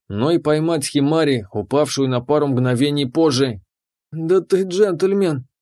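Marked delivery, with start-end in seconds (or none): 4.1-5.5 slow, breathless, strained; strained exhale. A narrator's reading. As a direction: squeeze it out on a breath. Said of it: "сдавленно выдохнула японка".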